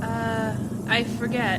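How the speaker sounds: loud over the wind; speaking up. Acted. Passenger answers the driver with the top down, loud. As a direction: raise the voice so the driver hears. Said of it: "You'll have to speak up".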